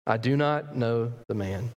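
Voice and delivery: slow, deliberate "not" in the denial; a measured oath spoken low; firm denial. Acted. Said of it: "he denied it with an oath".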